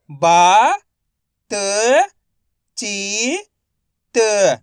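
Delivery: बा, त, ची, त each said alone; direct matra sounding. Shown as a demonstration. Teacher showing direct reading, बा, त, ची, त sounded separately. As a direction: hold बा and ची, pausing between sounds. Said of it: "direct मात्रा का उच्चारण करके पढ़ेंगे".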